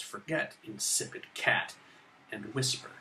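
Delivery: slow "forget, insipid CAT, and whisper", "cat" emphasized; stress on CAT. Shown as a demonstration. Teacher emphasizing the idea of cat, added stress on "cat". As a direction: throw the stress onto "cat". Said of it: "throw a stress on cat".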